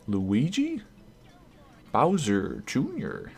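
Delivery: imitating the announcer's puzzled rising call; mock announcer voice, each name a rising question; lightly voiced announcer, names turned into questions; announcer asking a question. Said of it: "is he gonna say it as a question?".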